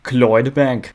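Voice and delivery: "Clydebank" as "Cloydbank", a loose Scottish try; attempted Scottish accent. Shown as a demonstration. Naming his Scottish city, a clumsy Scottish accent. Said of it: "I don't know how to do the accent".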